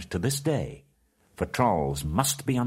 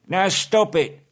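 much higher, louder, slow call; troll shout; 12 semitones higher, 8 dB louder, slower than usual. A narrator's reading. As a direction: bellow at them to stop. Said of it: "said Tom and Bert together".

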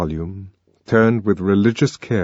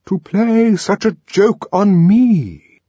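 high, loud, slow offended complaint; indignant songster; 12 semitones higher, 6 dB louder, slower than usual. Acted. The arch songster complaining about the Savage, loud and indignant. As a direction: protest the insult to yourself. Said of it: "the arch songster kept repeating".

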